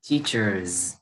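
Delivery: "Teachers" ending on a clear buzzed Z; final Z sound. Shown as a demonstration. Teacher pointing out âm Z, buzzing ending on "Teachers". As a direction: let the end of "Teachers" buzz as Z. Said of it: "âm Z ha".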